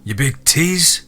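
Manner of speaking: slow, hammed-up plaintive holler; playful yell. A narrator's reading. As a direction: call after him in mock hurt. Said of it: "and Harley yelled".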